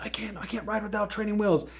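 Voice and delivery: high, panicky mock wail; a scared kid's high-pitched mock panic; freaking out. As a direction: play a kid losing his nerve. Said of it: "he starts freaking out".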